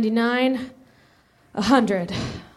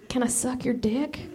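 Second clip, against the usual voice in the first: softly, hesitantly asking; shy quiet request; 2 semitones higher, 6 dB quieter than usual. Acted. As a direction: ask it timidly.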